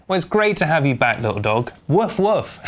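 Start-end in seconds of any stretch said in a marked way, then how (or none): 1.9-2.6 high spoken woof-woof; imitated dog bark. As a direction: bark playfully in words at the dog.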